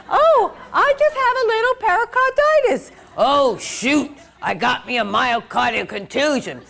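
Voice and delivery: squeaky high, cheery, then laughing; happy face voice. Shown as a demonstration. Nurse educator voices a cheery patient, high and laughing. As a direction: play the cheerful pericarditis patient, breaking into laughs.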